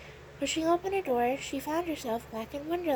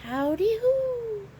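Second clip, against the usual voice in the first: high, slow, rising whoop; drawn-out, high-pitched yell; loud holler; 8 semitones higher, 5 dB louder, much slower than usual. A narrator's reading. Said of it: "hollered loudly".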